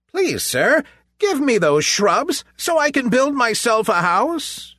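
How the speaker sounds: high, bright piglet voice; a small polite pig asking; little pig voice. A narrator's reading. Pig asks for shrubs.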